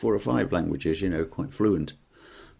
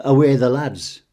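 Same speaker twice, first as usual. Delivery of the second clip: put-on Geordie accent; 4 semitones higher, 9 dB louder than usual. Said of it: "Okay, do the North East".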